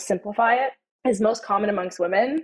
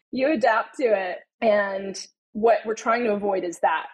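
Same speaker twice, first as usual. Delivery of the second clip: normal talking voice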